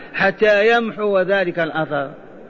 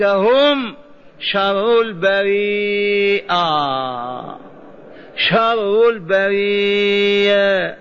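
slow, measured scripture recitation; Quran recitation; slower than usual. Acted. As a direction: recite the verse with long, drawn-out syllables. Recites a Quran verse aloud. (تلاوة متأنية مع مد الكلمات)

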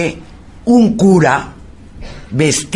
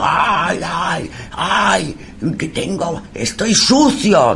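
high, drawn-out tormented cry; high-pitched lament without full volume; mock possessed wailing; 6 semitones higher, much slower than usual. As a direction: imitate a tormented soul wailing. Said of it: "Aldo gritando esas barbaridades, diciendo".

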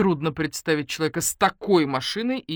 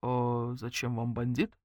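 bewildered; 4 semitones lower, 6 dB quieter, slower than usual. Acted. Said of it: "растерялся Матвей".

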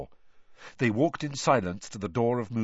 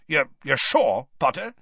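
alarmed Moody; 4 semitones higher, 6 dB louder than usual. A narrator's reading. Moody double-checking with Harry, alarmed. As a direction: press for certainty, stumbling in alarm. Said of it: "He looked suddenly alarmed".

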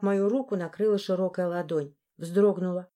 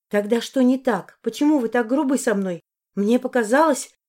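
louder, higher, hurt; upset demand; 4 semitones higher, 5 dB louder than usual. Acted. Heroine demands why he is rude, loud and hurt. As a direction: press him hard.

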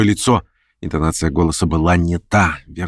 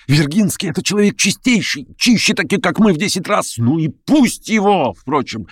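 high, excited rant; feverish plotter; 8 semitones higher than usual. A narrator's reading. Verkhovensky ranting to Stavrogin about his plans, high and feverish. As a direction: rave and persuade.

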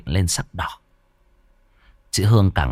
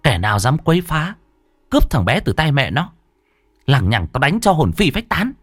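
hardened voice; 4 semitones higher than usual. Acted. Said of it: "giọng chị đanh lại".

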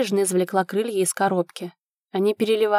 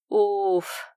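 tired exhale. A narrator's reading. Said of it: "тихо выдохнул он".

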